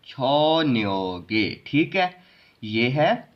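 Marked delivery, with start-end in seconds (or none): 0.1-1.5 छो न्यो गे syllable by syllable; g moved up to start गे; linked reading. Shown as a demonstration. Teacher shows the g sound, linked छो न्यो गे. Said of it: "गे की sound".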